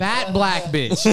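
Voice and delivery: slow, laughing delivery. Real, not acted. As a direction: drag it out while laughing. Laughing reading app results.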